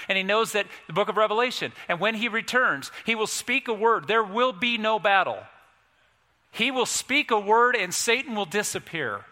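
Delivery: preacher driving the point home; forceful preaching. Real, not acted. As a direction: proclaim it with conviction from the pulpit.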